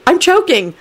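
very high, panicked appeal; rising frantic alarm. A narrator's reading. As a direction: plead for someone to notice. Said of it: "Neville thought frantically".

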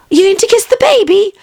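put-on whispered, high nanny voice cooing over the baby; nanny whispering to the master; doting nanny. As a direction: hush and gush over the sleeping baby.

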